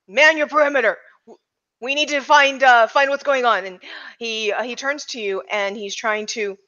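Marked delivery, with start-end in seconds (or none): 0.1-3.6 mildly raised chief's voice; yelled order. Acted. Police chief ordering cops to man the perimeter, mild yell. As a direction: give orders with a touch of a yell. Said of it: "yells at everyone".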